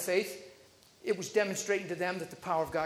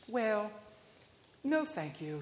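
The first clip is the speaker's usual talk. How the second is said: polite decline; 7 dB quieter, slower than usual. Retold or imitated. Old lady politely declines.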